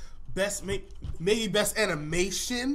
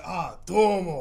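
Ninja Slayer voice; 4 dB louder, much slower than usual. Retold or imitated. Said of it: "just pull a Ninja Slayer".

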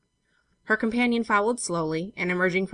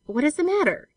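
higher-pitched gentle concern; 9 semitones higher, 4 dB louder than usual. A narrator's reading. Benson asking the startled girl, gently. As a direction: ask with mild, gentle concern. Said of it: "he asked gently".

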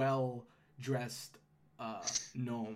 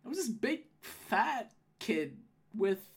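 hint of a high gnome-woman voice; Holly, recounting; 9 semitones higher than usual. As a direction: hesitantly describe what you saw, pitch swooping.

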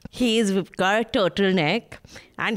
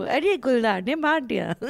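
rapid dramatic wildlife narration; nature documentary; 3 semitones higher, much faster than usual. Acted. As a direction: rush through it like a nature-show narrator. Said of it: "I can write a good wildlife documentary".

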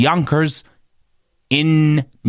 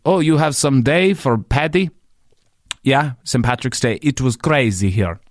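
put-on Puerto Rican accent. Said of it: "he said in his Puerto Rican accent".

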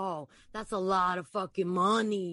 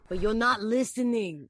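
Anthony, scolding. Acted.

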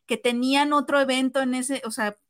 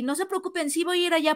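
retold reassurance; 4 semitones higher, faster than usual. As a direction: gently imitate someone soothing a waiting crowd. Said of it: "los calmó y dijo". (tranquilizando, voz más aguda y suave)

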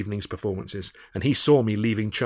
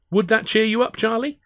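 Alf voice; 13 semitones higher, 6 dB louder than usual. A narrator's reading. Alf keen, voiced high.

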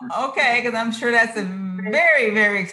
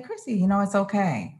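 soothing self-talk; 4 dB quieter than usual. Retold or imitated. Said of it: "the jitters will start and I'll say".

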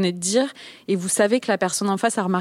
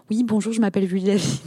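accentless standard French; faster than usual. Shown as a demonstration. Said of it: "une élocution un petit peu comme ça, euh, voilà, sans accent".

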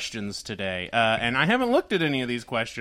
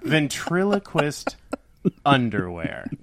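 laughing echo; 2 semitones lower, slower than usual. Real, not acted. Echoing back, laughing.

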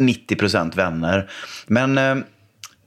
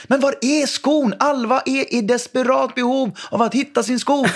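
high, theatrical game-master voice; playful game voice; 12 semitones higher than usual. Retold or imitated. Dad calling his son into a pretend mission, high theatrical voice. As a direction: sell it like a grand adventure to the kids.

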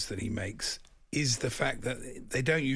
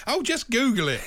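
high, loud laughing brush-off; amused exasperation at a silly listener request; exasperated scoff; 11 semitones higher, 6 dB louder than usual. Real, not acted. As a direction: wave the request away with disbelief. Listener asks for presenter pic.

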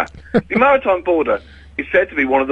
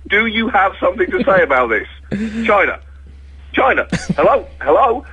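raised, high calling voice; calling out to China; 7 semitones higher than usual. Pretend. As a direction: shout across the room to get attention. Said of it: "the most popular".

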